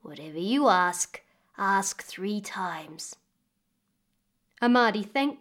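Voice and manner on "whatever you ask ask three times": slow whispered warning; old woman whispers her advice; secretive whisper. Acted. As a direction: hush it like a secret charm. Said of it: "said the old woman".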